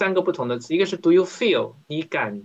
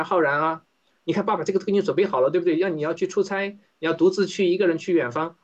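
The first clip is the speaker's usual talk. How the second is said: coaxing dad; 3 semitones higher than usual. Acted. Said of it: "有点像我们的爸爸妈妈".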